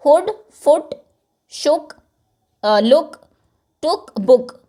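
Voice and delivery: each word said with a short quick oo. Shown as a demonstration. Teacher reads short oo words to the class. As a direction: clip the oo in "हुड" and "फुट". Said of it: "इनमें sound छोटी है".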